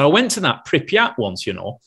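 lightly imitated Lancashire sound man; Lancashire accent. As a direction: slip into a mild Lancashire accent. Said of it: "Hope you can understand my Lancashire accent".

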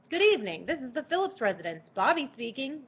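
polite, dignified receptionist tone; formal phone greeting. Acted. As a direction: answer like a proper butler. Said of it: "Much better, dignified, yet not too stuffy".

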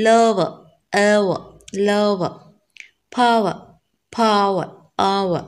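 each word from player to hour said alone, gliding through three vowels to a final "uh"; triphthong breakdown. Shown as a demonstration. Teacher breaking down triphthong examples, careful separated sounds with falling tune. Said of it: "schwa sound is called triphthongs".

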